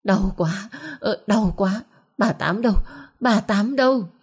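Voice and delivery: acted pained wail climbing toward a cry; sobbing in pain. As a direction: call out for help between pained sobs. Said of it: "Tiếng bà cả lại nấc lên".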